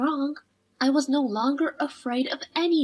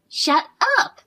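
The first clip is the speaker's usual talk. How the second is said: shout; 5 semitones higher, 4 dB louder than usual. Acted. Girl yelling again.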